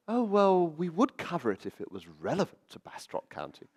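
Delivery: lightly voiced dismissive editor, high opening; newspaper editor quoted. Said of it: "she didn't speak quite like that".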